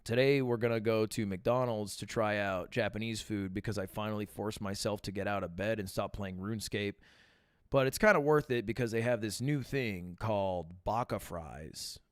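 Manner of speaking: flat deadpan monotone, lightly imitated. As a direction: read it dry with no ups and downs. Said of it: "in this monotone voice".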